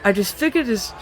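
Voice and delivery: high and loud, hammed-up elf squeal; horrible high elf voice. Narrating the recap, voicing the elf on the stone: high shrill elf. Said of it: "in a horrible high elf voice".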